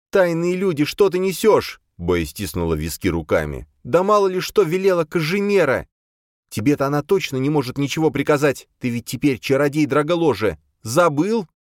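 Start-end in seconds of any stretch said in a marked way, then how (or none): 0.1-1.8 put-on high, impatient young woman's voice; an exasperated girl pushing to leave; Boya, impatient. Boya impatient with the others, high and pushy. 3.8-5.9 put-on high, impatient young woman's voice; an exasperated girl pushing to leave; Boya, impatient. Boya impatient with the others, high and pushy. 6.5-11.5 put-on high, impatient young woman's voice; an exasperated girl pushing to leave; Boya, impatient. Boya impatient with the others, high and pushy.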